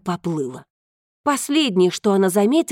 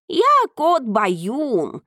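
a hint of a proud cat; lightly voiced cat; slower than usual. Cat speaking.

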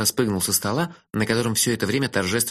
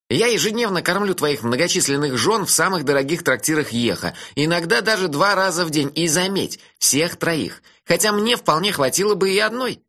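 put-on cheeky dreamy young man, higher; teasing friend, pitched up; higher voice for Melifaro; 6 semitones higher than usual. (насмешливый голос Мелифары повыше)

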